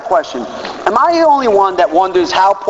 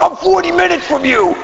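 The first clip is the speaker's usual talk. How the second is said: imitating Paulie; 11 semitones higher than usual. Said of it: "he's like".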